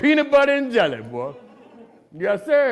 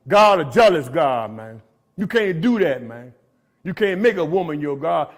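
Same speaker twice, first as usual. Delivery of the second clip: a firm, slightly louder warning from an angry man; mild angry rebuke; 2 semitones lower, 4 dB louder than usual. Retold or imitated. A friend in recovery warning the speaker, mild angry rebuke. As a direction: lay down the law about God. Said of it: "he said it angrily".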